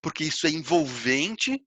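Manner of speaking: modulate it almost like theatre to draw listeners in; engaging, theatrical rise and fall; theatrical modulation. Shown as a demonstration. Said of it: "uma modulação quase que teatral".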